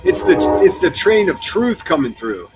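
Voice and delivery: calling over noise. Real, not acted. Streamer announcing the passing train to viewers, loud and high. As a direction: project it loudly over the train's rumble.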